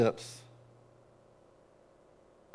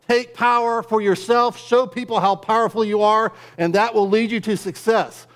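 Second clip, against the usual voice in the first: higher and louder, driving the world's creed; hammed-up power sermon, higher and louder; mock hustle preaching; 7 semitones higher, 4 dB louder than usual. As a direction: preach it like a ruthless motivator. Preacher voicing the world's demands.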